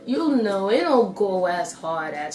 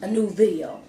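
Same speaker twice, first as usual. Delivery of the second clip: slow, careful phrase-by-phrase delivery. Real, not acted. Vlogger careful not to mix up update and upload, slow. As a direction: take it slowly, pausing between the phrases. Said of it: "I had to say that slow".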